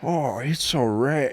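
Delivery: slow put-on fake accent; mock Chinese accent. Friend echoing the text, slow mock Chinese accent. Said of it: "an accent over text".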